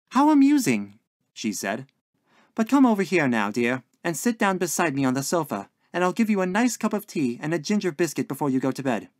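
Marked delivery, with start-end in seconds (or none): 0.1-1.0 amused landlady. A narrator's reading. Landlady humouring her puzzled lodger, amused. Landlady reacts to Billy's theory. 2.5-9.1 higher-pitched motherly hostess; coaxing landlady. A narrator's reading. Landlady inviting lodger to tea, coaxing.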